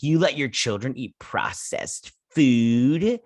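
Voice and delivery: slow, sniffy mock judgement; pretentious. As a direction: drawl it out like a snob judging. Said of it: "very pretentious".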